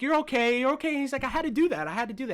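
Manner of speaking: imitated panicky babble, high and loud; freaking out. Fan imitating the man who just tried to kill her, frantic excuses. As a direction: repeat it urgently, mimicking someone losing it. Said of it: "he starts freaking out".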